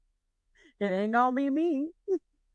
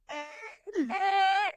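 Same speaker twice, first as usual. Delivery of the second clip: high, thin drawn-out mock whine; imitated panicked noise; 9 semitones higher than usual. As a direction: act out a wordless nervous squeal. Imitates sound made when ride stopped.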